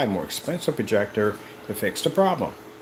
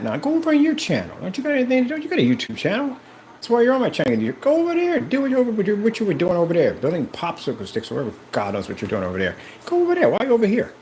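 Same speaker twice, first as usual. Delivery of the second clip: shouted dismissal; 9 semitones higher, faster than usual. Acted. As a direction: yell at them to go back to their own channel. Telling naysayers to leave.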